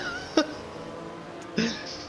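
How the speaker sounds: breathy car whoosh; whooshing sound effect. Retold or imitated. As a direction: mimic a car sweeping past. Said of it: "I'm making sound effects again".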